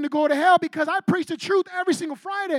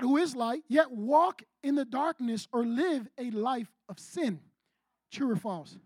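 slower repeat. Real, not acted. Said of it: "let me repeat the question again".

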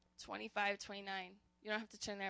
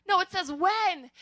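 "When" punched out loud and falling; stress on when; 5 semitones higher, 7 dB louder than usual. Shown as a demonstration. Pastor stresses when over if, punching it loud. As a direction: hit the word "When" hard against "if". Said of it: "it doesn't say, If you go".

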